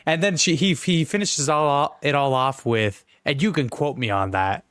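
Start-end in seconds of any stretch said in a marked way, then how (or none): 3.2-4.6 put-on Boston accent. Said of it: "The Boston accent".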